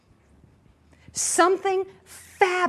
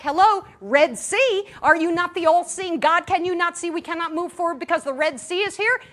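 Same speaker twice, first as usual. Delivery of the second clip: mock complaint; 5 semitones higher, 4 dB louder than usual. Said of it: "It's like".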